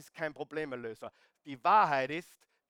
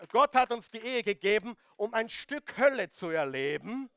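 louder, raised restatement with weight on Gott; emphatic repeat; 4 semitones higher, 6 dB louder than usual. Shown as a demonstration. Preacher repeating his conviction to the congregation, louder. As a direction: drive the point home louder. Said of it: "ich bin davon wirklich überzeugt, ehrlich".

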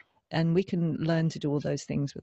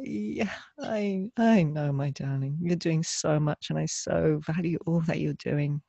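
soothing mother voice; slower than usual. Retold or imitated. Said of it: "And you're like".

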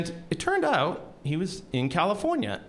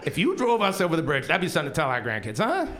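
excited pitch; 5 semitones higher than usual. Retold or imitated. Tim pitching the bridge idea excitedly.

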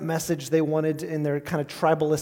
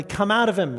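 a firm, louder rebuke; Jesus rebuking a demon, stern and loud; stern command; 4 semitones higher, 5 dB louder than usual. Acted. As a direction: command the spirit out with authority. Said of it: "And he said sternly".

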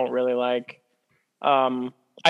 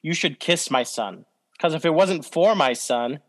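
gravelly voice; 2 semitones lower than usual. Retold or imitated. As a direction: lean in close and growl it low. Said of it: "use a low, gravelly voice".

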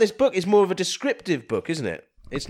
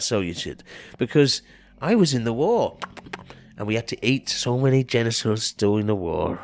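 lightly voiced rambling old man; Storytime Grandpa voice; 4 semitones lower than usual. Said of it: "Storytime Grandad".

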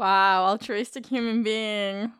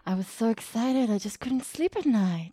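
sarcastic. Real, not acted. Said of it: "You sound like you're being sarcastic".

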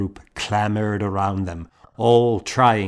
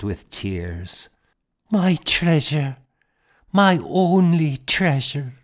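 mother voice; 6 semitones higher, 4 dB louder than usual. A narrator's reading. Mother voiced, tearful and devout.

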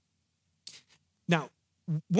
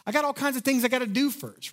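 incredulous excuse; 8 semitones higher than usual. Retold or imitated. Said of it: "You're gonna be like".

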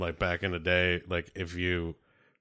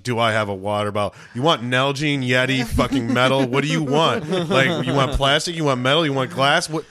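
incredulous rant; 4 semitones higher, 5 dB louder than usual. Retold or imitated. Ranting at friend over water bottles.

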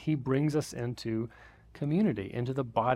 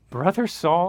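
amazed repeat; 4 semitones higher, 5 dB louder, slower than usual. Real, not acted. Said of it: "are you kidding me?".

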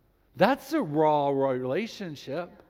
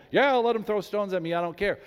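strong military bravado; 3 semitones higher, 4 dB louder than usual. Retold or imitated. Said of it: "looks like the strong military man".

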